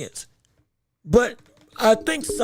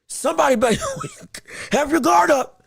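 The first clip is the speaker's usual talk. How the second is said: half-joking angry outburst, raised at the end; fired-up fury; 3 semitones higher, much faster than usual. Real, not acted. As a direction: rant like you're ready to swing on your friends. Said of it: "'cause I'm just so angry".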